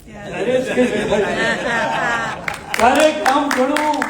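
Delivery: measured, sung-through poetic recital with pauses between half-lines; ghazal recitation. Acted. Poet reciting his ghazal to a mushaira audience, declaiming.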